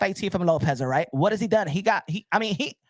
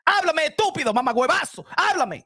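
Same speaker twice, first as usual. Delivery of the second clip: high, playful Spanish taunt; teasing call-out; 6 semitones higher than usual. Acted. Streamer taunting chat in Spanish, playful call-out.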